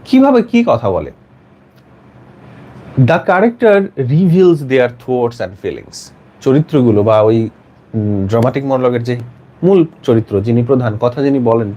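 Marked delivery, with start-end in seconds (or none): 3.0-6.1 very slow, word-by-word reading; slow dictation. Shown as a demonstration. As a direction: spell out each phrase slowly for note-takers. Teacher dictating next answer line. (ধীরে ধীরে একেকটি শব্দ পড়া)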